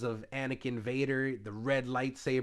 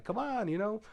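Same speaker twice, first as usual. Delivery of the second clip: mock urging; 10 semitones higher than usual. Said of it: "and he's like".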